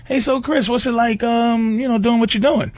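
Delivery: high, breezy puppet host; mock bunny interviewer. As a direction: play the cheeky bunny. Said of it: "the bunny goes".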